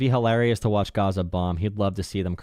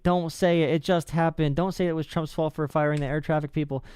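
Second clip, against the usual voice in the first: higher-pitched retold scolding; mock yelling supporters; 5 semitones higher than usual. Trump supporter warning the speaker off blame, mild mock yell. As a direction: imitate a heckler's protest without really yelling. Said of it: "I got yelled at by Trump supporters".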